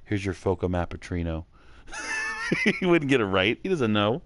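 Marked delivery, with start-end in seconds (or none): 0.1-1.4 gruff wrestler saying a coffee order; mock Batista reading the order. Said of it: "how would he say my order?".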